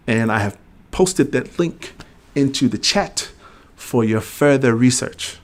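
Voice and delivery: slow, careful hint of British; British accent. Real, not acted. Sharing a link with viewers, slipping into a British accent. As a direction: lightly put on a British accent. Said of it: "why I'm talking like I'm British".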